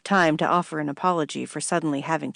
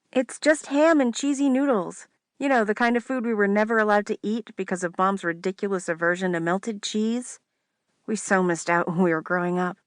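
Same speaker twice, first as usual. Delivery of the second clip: higher teasing sister voice; 4 semitones higher than usual. Acted. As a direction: needle her like a bossy sister.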